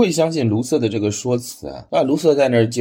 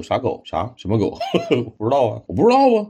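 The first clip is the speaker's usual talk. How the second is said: playing dumb; 3 semitones higher than usual. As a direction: feign innocence about the dog. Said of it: "卢瑟装糊涂".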